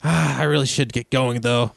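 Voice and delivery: high, bright eager voice of a cheerful traveller; cheerful Canton. Acted. GM plays cheerful albino Canton.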